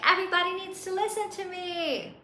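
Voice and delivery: hammed-up demand for attention; in everybody's face. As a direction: parody your own pushy preaching. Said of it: "I would be in everybody's face".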